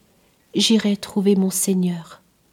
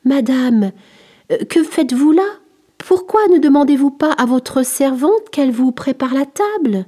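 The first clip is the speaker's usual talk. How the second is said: put-on boy's voice; 5 semitones higher, 4 dB louder than usual. Boy Curius questions the beggar.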